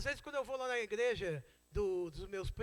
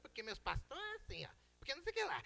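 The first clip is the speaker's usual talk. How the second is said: high-pitched mimicked grumbling; mock complaining; 5 semitones higher, 5 dB quieter than usual. Church member grumbling at a neighbour's house about the pastors, mock complaining. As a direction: imitate a whining church member, pitch leaping up.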